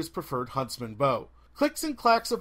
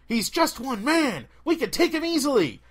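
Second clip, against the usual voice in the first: cliché bandit thug; 8 semitones higher, 4 dB louder than usual. Retold or imitated. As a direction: play the generic thug bragging to his gang. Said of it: "one of the classics".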